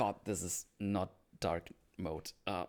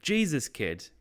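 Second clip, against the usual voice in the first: acted exasperation, higher and louder; annoyed; 7 semitones higher, 5 dB louder, slower than usual. Oz interrupts the stuttering Vic, annoyed. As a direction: cut in, fed up with the stammering. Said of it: "gets annoyed by the stutter".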